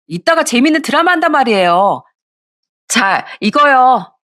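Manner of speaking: lazy sister-in-law. Acted. Sister-in-law begging off holiday chores, petulant.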